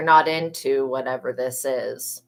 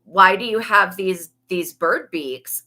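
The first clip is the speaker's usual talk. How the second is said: mock boyfriend voice; 4 semitones higher, 5 dB louder than usual. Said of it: "he was like".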